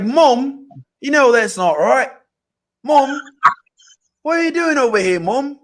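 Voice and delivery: put-on half-hearted British accent; Mister Bean accent. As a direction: put on a shaky English accent pleading with mom. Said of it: "my Mister Bean accent".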